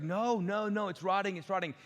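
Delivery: high, loud wife insisting; mock insistence. Wife insisting meat is rotting.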